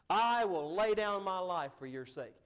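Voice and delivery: slow, loud, emphatic pledge; solemn promise, leaning hard on the opening; earnest vow. Retold or imitated. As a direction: quote the vow as if meaning every word. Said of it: "he meant every word of it".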